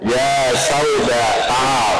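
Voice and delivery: mock tender call. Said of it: "jangan dipanggil Humaira".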